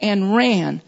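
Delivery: "ran" set apart and leaned on after a pause; "ran" emphasized on its own; stress on RAN. Shown as a demonstration. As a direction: hit "ran" as the key word. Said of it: "I'm emphasizing these words".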